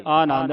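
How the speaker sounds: ਆਨੰਦ opening on a long aa; long first vowel. Shown as a demonstration. Teacher points out the kanna, ਆਨੰਦ with long initial aa. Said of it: "ਐੜੇ ਨੂੰ ਕੰਨਾ ਲੱਗਾ".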